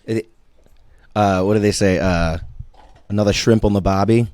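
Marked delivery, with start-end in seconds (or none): 3.1-4.3 stock Australian catchphrase voice; Australian accent. Shown as a demonstration. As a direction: try out an Aussie accent. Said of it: "Australians are a little lower".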